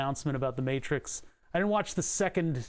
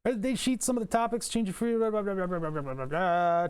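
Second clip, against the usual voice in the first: mocking; 3 semitones higher, faster than usual. Mocking the forum answer.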